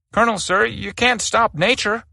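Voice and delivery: a frightened private singing his excuse; nervous sing-song. Acted. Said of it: "in a nervous sing-song".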